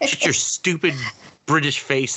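high-pitched comic exasperation; mock outrage. Telling off Doctor Strange for joking, in high mock outrage. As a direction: rant at him in half-laughing annoyance.

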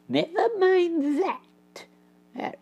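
slow, soft but stern. Acted. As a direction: cut him off firmly. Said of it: "replied Basil sternly".

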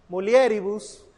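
MULIERIBUS said mu-li-E-ri-bus; stress on E. Shown as a demonstration. Teacher repeating the right form, mulieribus stressed on E. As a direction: put the accent on the e of mulieribus. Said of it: "aquí sería en la E".

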